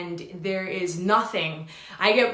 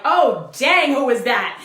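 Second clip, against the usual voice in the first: much higher and louder, laughing through it; laughing shout; 11 semitones higher, 10 dB louder than usual. Retold or imitated. Watching his own old videos, laughing and shouting in disbelief. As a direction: shriek with laughter at your old self.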